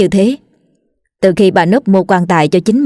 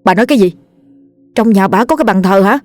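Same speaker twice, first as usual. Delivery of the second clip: shocked disbelief. A narrator's reading. Shocked reaction to frightening news.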